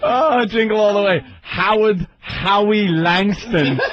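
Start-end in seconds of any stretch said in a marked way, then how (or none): 1.4-3.8 drawn-out mock German accent; slow, hammed-up German-accented name. Co-host announcing an action hero's name, slow German accent. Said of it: "With that awful German accent".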